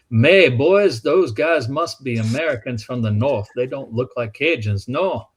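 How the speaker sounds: put-on light Cajun accent, opening loud on May, boys. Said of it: "I'm using those accents".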